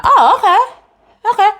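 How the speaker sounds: high hesitant retreat; uneasy inner voice. Retold or imitated. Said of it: "and I was like".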